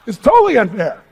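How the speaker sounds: "totally unfair" said through a laugh. Shown as a demonstration. The speaker repeats that rewards are unfair, laughing. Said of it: "And it's totally unfair".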